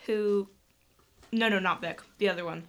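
talking through a mouthful of chocolate; mouth full. Real, not acted. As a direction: speak around a bite of food. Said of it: "talking with food in my mouth".

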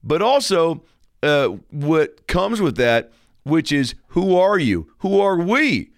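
lightly voiced TV host; smooth host intro patter; talk show host.

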